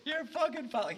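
very high mock-hysterical yell; tearful outrage, imitated. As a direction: imitate a man raging near tears. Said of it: "He's got tears in his eyes".

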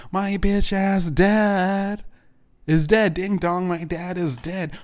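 slow, high and taunting; gloating singsong. Real, not acted. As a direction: savor every word of it. Gloating over dad's death.

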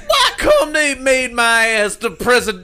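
high, loud mock Obama, laughing through it; joining in the goofy Obama bit; Obama impression. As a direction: ham it up as a laughing president. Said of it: "Let's hear your Obama impression".

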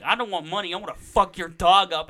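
loud mock threat that swells on the last words; hammed-up rage, biting down at the end; angry threat. Neighbor threatening the kid's dog, mock furious. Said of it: "She's like".

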